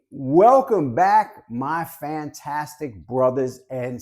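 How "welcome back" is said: slow, rising show-host welcome; drawn-out welcome. Real, not acted. Vlogger welcoming back his viewers, slow rising greeting. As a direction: draw it out and lift the end. YouTuber opening greeting repeated.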